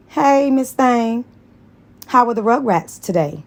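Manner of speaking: a hint of a teasing coworker; Carol voice. Carol's voice in story.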